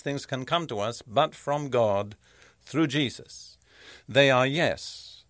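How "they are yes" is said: slow, weighty stress on "yes"; a drawn-out, emphatic "yes". Real, not acted. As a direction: land firmly on "yes", taking your time. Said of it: "That's very emphatic".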